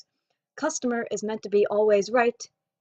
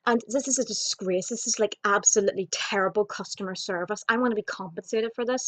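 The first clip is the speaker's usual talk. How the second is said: mock complaining customer. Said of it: "as fast as this woman can talk".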